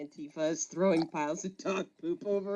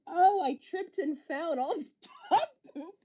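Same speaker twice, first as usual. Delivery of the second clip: fake innocent excuse; 9 semitones higher than usual. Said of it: "I was like".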